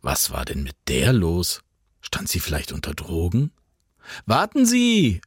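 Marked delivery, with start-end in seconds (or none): 4.2-5.2 calling out. A narrator's reading. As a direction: call out to stop her. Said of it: "rief er".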